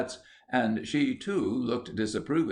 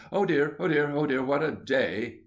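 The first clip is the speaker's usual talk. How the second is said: murmuring; 5 semitones higher than usual. A narrator's reading. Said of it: "sat there murmuring".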